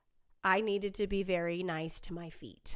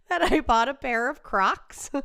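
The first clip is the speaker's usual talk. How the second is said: higher, loud exasperated repeat; loud confession; 4 semitones higher, 8 dB louder than usual. Real, not acted. Repeating the confession after sound dropped, loud exasperation. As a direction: blurt the admission out at full voice. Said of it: "Just as I make my confession".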